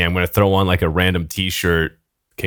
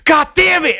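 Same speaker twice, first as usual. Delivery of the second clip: high, hammed-up shout; mock enraged yell; 4 dB louder than usual. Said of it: "and he just yells".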